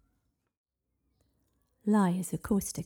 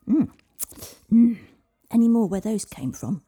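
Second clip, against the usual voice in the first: dragon voice; 5 semitones higher, 13 dB louder than usual. Acted.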